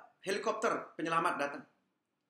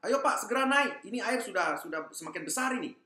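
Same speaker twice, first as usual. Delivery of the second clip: shouting up; 4 semitones higher than usual. Acted. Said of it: "sambil teriak".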